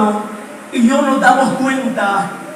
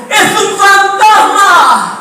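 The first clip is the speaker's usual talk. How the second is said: mock fearful cry; 6 semitones higher, 3 dB louder, much slower than usual. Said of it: "alguien gritó".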